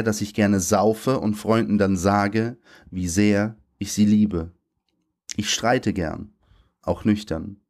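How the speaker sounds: measured poetry reading voice, slowing on line ends. Acted. Poet reads his poem aloud at a reading. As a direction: deliver it like a spoken-word reading, letting the lines land.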